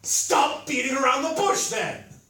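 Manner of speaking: loud, high command; impatient demand. A narrator's reading. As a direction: cut in loudly, losing patience. Impatient Thorstein demands a scream.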